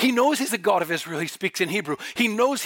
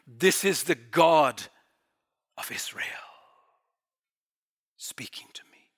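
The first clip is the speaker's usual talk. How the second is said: hushed realisation; 6 semitones lower than usual. Acted. Paul realises who is speaking to him, hushed, fading to whisper. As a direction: let it sink from full voice to a breath. Preacher voices Paul's awed realisation.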